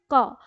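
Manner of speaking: क said as a plain full syllable ka; demo syllable ka. Shown as a demonstration. Teacher demonstrating to pupils: क as ka. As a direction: sound out क clearly, ka. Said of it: "आप इसका उच्चारण करेंगे".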